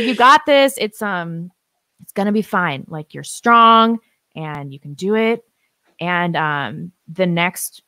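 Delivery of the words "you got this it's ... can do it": louder, higher, laughing through emotion; husband's encouragement through tears. Retold or imitated. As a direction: choke up while quoting him. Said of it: "He's like".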